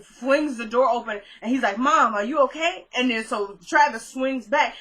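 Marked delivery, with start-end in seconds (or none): 1.8-2.9 higher-pitched, mildly alarmed question; retold concerned child. Justice flings the door open to mom, retold concern. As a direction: imitate a child checking on mom.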